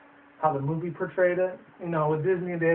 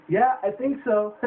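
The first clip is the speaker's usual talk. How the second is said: drawn out and raised, mock dazed; slow deadpan agreement; 6 semitones higher, 3 dB louder, slower than usual. Monkey answering Oz, slow dazed reply. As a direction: drag it out, stunned. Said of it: "And he's like".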